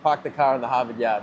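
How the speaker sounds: "park the car in the Harvard Yard" with dropped r, broad ah in "park" and "car"; Boston accent. Shown as a demonstration. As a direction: say it Boston style, no r sounds. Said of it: "Boston accent".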